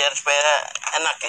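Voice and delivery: talking around a cigarette; cigarette in mouth. Real, not acted. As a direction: cigarette between the lips while speaking. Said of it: "Kalau sambil ngerokok nggak apa-apa". (bicara sambil menghisap rokok)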